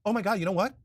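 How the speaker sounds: high, fake-shocked realisation; mock dismay. Host mimicking The View suddenly noticing Biden's age, mock dismay. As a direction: act like the panelists just woke up to it. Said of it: "The View is like".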